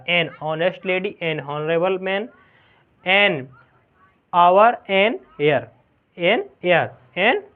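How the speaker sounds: slow, careful an honest lady, an honorable man; slow model reading. Shown as a demonstration. Teacher reading examples slowly to pupils. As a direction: read each example slowly, word by word. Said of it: "किस तरीके से एएन लगा".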